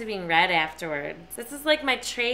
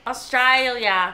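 tag attempted Australian accent; slower than usual. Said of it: "trying to do an Australian accent".

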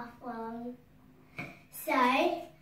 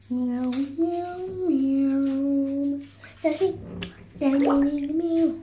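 loud cat meows; 7 dB louder, much slower than usual. Pretend. Child meowing loudly.

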